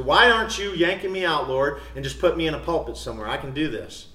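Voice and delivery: mildly cocky, impatient plea; retold arrogant pride. Preacher retelling his young self pleading with God, mildly arrogant. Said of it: "There's arrogance and pride".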